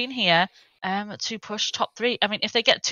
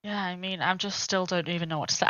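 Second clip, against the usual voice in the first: breathless and soft; out of breath; 2 semitones lower, 7 dB quieter than usual. Real, not acted. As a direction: still catching my breath. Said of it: "I'm still catching my breath".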